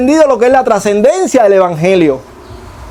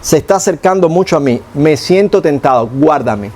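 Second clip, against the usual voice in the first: plain honest prayer; 5 semitones lower than usual. Shown as a demonstration. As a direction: talk to God simply and honestly. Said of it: "yo le digo".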